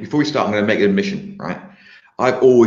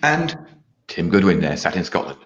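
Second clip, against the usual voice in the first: posh announcer voice. Pretend. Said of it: "the posh announcer voice".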